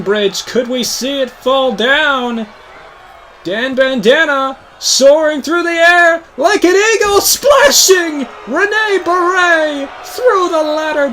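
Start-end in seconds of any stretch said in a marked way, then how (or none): 3.4-11.1 high, loud climactic call; announcer erupting as the big dive lands; excited play-by-play shout. Real, not acted. Commentator calls the climactic dive.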